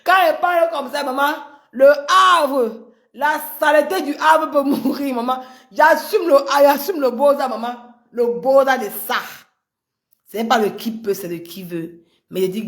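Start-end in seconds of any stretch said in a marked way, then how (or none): 0.0-8.8 mocking. Real, not acted. Mocks, high, loud.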